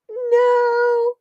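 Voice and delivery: high sharp pet scold; sharp no to the cat. Real, not acted. To the cat on the table, a high sharp no. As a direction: snap a quick no at the cat.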